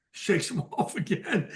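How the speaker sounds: breaks into a laugh on the words; can't hold back the laugh telling it; chuckling through the punchline; laughing mid-word. Real, not acted. Laughing while retelling prank.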